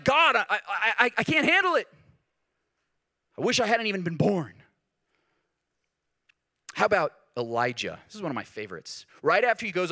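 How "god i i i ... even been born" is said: high, loud stammering complaint with a laugh; half-laughing, fumbling mock despair; Jeremiah exasperated. Preacher playing Jeremiah to the crowd, high stammering mock despair. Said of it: "he's like".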